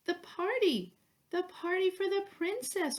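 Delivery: urgent cry. A narrator's reading. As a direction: blurt it out in a hurry. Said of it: "cried Pinky".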